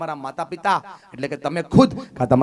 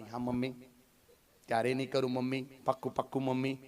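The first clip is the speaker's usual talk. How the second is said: put-on child promising; 3 semitones lower, 20 dB quieter, faster than usual. Child answers mother in story.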